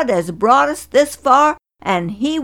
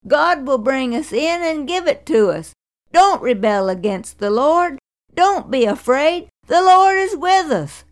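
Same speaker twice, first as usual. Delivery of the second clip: higher, urgent pleading; pleading cry; 7 semitones higher than usual. Acted. Joshua and Caleb pleading with the crowd, urgent. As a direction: beg them not to rebel. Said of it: "they cried".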